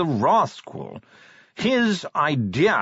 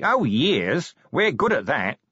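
nasal corporal voice; 4 semitones higher, slower than usual. Acted. Nobby voiced in read story.

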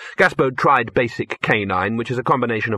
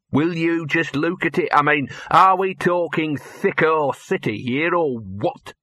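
higher, indignant sneer; 6 semitones higher, slower than usual. Acted. Gaspode scorning the dim dog, exasperated sneer. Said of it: "sneered Gaspode".

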